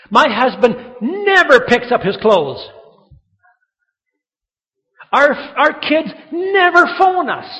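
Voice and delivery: high, loud griping with NEVER leaned on; exaggerated complaint. Preacher voices spouses and parents overstating, exaggerated loud complaint. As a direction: complain hard, stretching the point. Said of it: "exaggeration to make a point".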